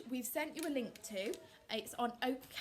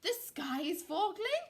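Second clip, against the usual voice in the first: lightly gobbled, raised voice; higher, wobbling turkey question; gobbling turkey; 7 semitones higher, 5 dB louder than usual. A narrator's reading. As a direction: gobble it in disbelief. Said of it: "gobbled Turkey Lurkey".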